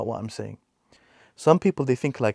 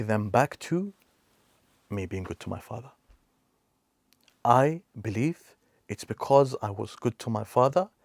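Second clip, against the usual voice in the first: sincere. Retold or imitated. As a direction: let each word settle, grateful. Friend recalls serving late father.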